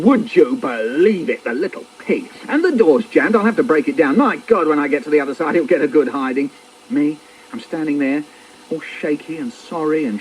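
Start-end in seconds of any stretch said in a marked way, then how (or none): 0.0-6.5 acted angry rant, held-in volume; roaring dad. Dad furious at the jammed door, acted roar. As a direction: rant as an exasperated father. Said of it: "he is roaring".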